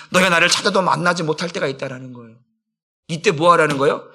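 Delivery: ordinary delivery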